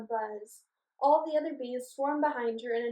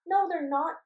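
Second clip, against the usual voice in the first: high, loud excited shout; girl cries out excitedly as the bees chase; excited cry; 6 semitones higher, 8 dB louder than usual. Acted. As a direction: cheer the bees on. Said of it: "Rachel cried excitedly".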